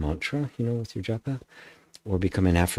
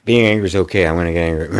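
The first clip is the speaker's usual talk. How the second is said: louder mock declaration; mock self-justifying; 3 semitones lower, 9 dB louder, much faster than usual. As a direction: act the ego claiming anger. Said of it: "There's nothing that says".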